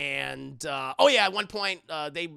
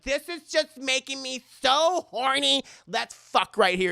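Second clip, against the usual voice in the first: high, loud overexcited come-on; hammed-up eager arousal; mock lustful; 7 semitones higher, 6 dB louder than usual. Woman aroused by the creepy room, hammed-up lustful plea. Aroused character propositioning partner.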